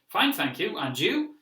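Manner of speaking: stiff learner reply. Shown as a demonstration. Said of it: "it's going to seem a little strange".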